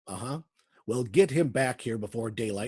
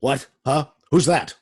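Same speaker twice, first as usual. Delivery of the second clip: startled demand; 6 dB louder than usual. Acted. Warden startled by unseen voice.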